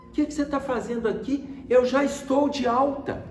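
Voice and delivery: high-pitched, puzzled retelling of dad; indignant father. Retold or imitated. Dad to son at the hospital, indignant. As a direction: imitate a dad protesting, pitched well up. Pai surpreso ao ver o filho.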